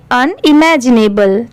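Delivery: अनइमेजिनेबल as un plus imaginable joined; joined-up demonstration. Shown as a demonstration. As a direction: sound out अनइमेजिनेबल from its two parts. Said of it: "दोनों को मिला देंगे". (अन और इमेजिनेबल जोड़कर अनइमेजिनेबल पढ़ें)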